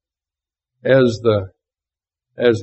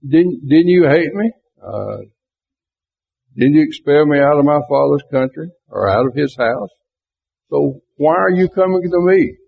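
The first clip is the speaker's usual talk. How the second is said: higher, mildly indignant retelling; acted-out reproach, pitch raised; indignant challenge; 3 semitones higher than usual. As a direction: throw it back at them as a challenge. Acts out Jephthah confronting the elders.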